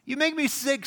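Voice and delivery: high, drawn-out disgust. Retold or imitated. Preacher voicing his disgust at Saul's hypocrisy. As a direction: spit out the disgust. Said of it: "It's like".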